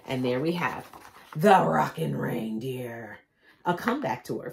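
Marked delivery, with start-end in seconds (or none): 1.4-3.2 slow whisper; whispered title. Real, not acted. Reader showing the final page, slow whisper. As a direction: breathe the name slowly.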